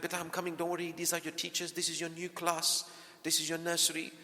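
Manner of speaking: put-on calm the child at the nursery door; soothing parent.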